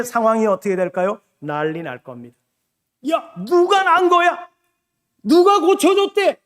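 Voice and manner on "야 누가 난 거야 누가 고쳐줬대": high, eager gossip of the crowd; excited crowd. Retold or imitated. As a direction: call out like townsfolk hearing news. Crowd buzzing over a healing.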